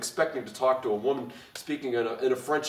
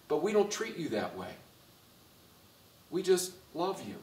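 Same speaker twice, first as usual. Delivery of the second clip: gentle reassurance; 3 semitones higher, 4 dB quieter than usual. Real, not acted. Softens after the mock condemnation.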